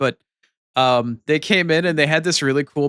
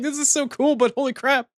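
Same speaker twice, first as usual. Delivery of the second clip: much higher, overplayed amazement; amazed; 13 semitones higher than usual. Streamer reacting to viewers getting timed out, amazed. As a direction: gasp it out, half thrilled, half alarmed.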